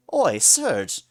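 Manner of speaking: loud shocked yell, cut off; yelling, not sobbing; horrified shout. A narrator's reading. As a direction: shout in horror at Serge. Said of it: "Kid sobbed in horror".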